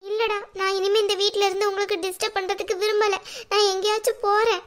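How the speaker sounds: put-on weepy self-sacrifice; tearful martyrdom. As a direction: play the hurt mother threatening to go. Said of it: "சரிம்மா, அழாதீங்க".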